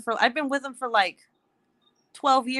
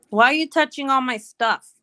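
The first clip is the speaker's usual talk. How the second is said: scolding; 5 semitones higher, 4 dB louder than usual. Real, not acted. Scolding child touching her things.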